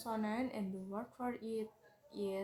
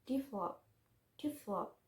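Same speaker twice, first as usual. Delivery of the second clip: "develop" with the middle syllable stressed; emphasize the second syllable of "develop"; "develop", weight in the middle. Shown as a demonstration. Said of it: "with the stress in the second syllable".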